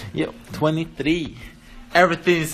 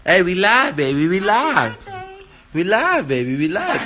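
hype call; 3 semitones higher, 5 dB louder, slower than usual. Real, not acted. Hyping up a livestream opening.

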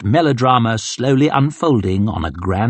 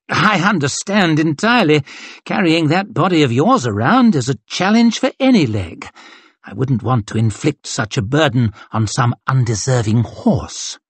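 brisk mocking colonel; 3 semitones higher than usual. Colonel hurrying his captain, brisk and scornful. Glocta mocks Ruse.

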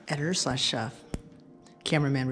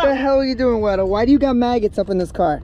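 high, loud disgusted shock; 6 semitones higher, 7 dB louder than usual. Real, not acted. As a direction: yell in sudden disgust. Finding maggots in the car.

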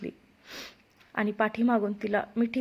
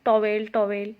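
calling out; 4 dB louder than usual. A narrator's reading. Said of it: "नुसता ओरडत होता".

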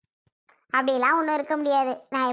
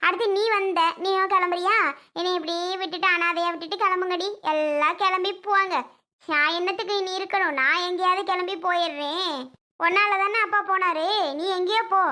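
bitter outburst; 3 semitones higher than usual. Acted. Mother lashes out at daughter leaving.

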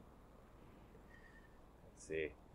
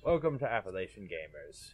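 amused. Real, not acted. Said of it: "You sound so amused".

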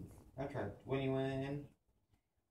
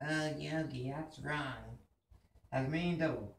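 Boo Boo. Acted. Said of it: "Boo Boo".

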